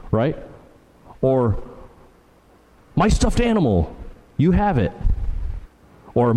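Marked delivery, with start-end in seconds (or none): 2.9-4.9 "My stuffed animal" pitched way up, then "you have it"; acted child claiming it, high swoop on "My stuffed animal"; indignant kid emphasis. Kid accusing another kid, indignant stress on "My stuffed animal". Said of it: "you can tell by the way they say it, the emphasis".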